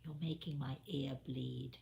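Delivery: soft, gentle rebuke; a gentle, kindly reproach. Retold or imitated. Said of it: "very gently, very kindly".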